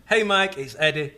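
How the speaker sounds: mildly hammed-up email greeting; Michael Russo style. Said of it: "The Michael Russo style".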